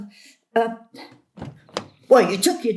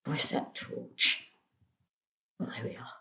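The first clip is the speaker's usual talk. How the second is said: unvoiced, much softer, lower; whispered to herself; 7 semitones lower, 12 dB quieter than usual. Gran alone in the car searching the bag, whispering. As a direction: whisper to yourself in the dark car.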